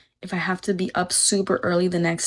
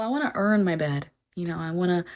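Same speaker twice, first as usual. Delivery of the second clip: usual speaking voice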